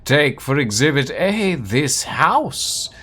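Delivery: grand, lofty dramatic reading with swooping stresses; theatrical narration. Acted. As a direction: relish the archaic words like an orator. Reads game text in dramatic voice.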